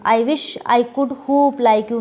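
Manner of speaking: slow, measured verse reading; a teacher rereading the poem line slowly; poem recitation. Acted.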